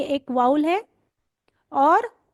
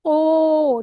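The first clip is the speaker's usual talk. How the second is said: drawn out slowly, louder; slow long o; 5 dB louder than usual. Shown as a demonstration. Teacher showing the long O to trainees, slow. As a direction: hold the O long. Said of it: "देखो अ जल्दी बोलना है".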